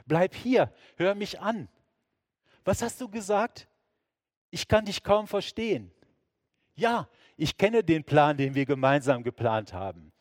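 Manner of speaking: high, loud, frightened plea; desperate pleading. Acted. Jesus in fear pleading with God, loud and high. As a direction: beg God not to leave.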